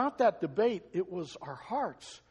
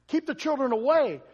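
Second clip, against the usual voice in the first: mock stern shoo; 6 semitones higher, 6 dB louder than usual. Disciples shooing children again.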